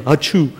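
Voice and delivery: unconvincing spoken achoo; fake sneeze. Shown as a demonstration. Preacher showing that forced sneezes fall flat, fake sneeze. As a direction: fake a sneeze that never sounds real. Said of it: "like faking a sneeze. Never sounds real".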